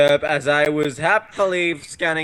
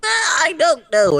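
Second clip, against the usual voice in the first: much higher, slow dopey reply; dopey character voice; 14 semitones higher, 6 dB louder, slower than usual. Acted. The guy again failing to answer, high and slow. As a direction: drag it out, clueless. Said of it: "And he was like".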